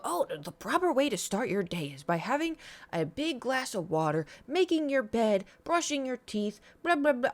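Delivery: high, preachy mock advice voice. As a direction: parody smug wellness advice. Mocking advice people give.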